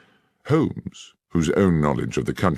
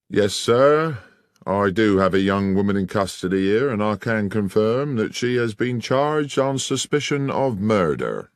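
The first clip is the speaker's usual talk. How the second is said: a hint of a self-important policeman, higher; smug sergeant; 5 semitones higher than usual. Sergeant tells Holmes the woman is charged, smugly. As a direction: lay it on with official pomp.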